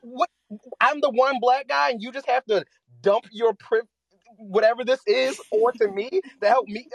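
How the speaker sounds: high, loud and half-laughing disbelief; incredulous. Retold or imitated. Retelling stunned reaction to unwanted privilege talk, high and laughing. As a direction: squeal it out, stunned and amused. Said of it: "I was like".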